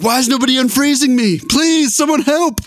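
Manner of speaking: put-on high, pleading frozen kid; whiny kid voice. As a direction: beg like a stranded child. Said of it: "you'd be like".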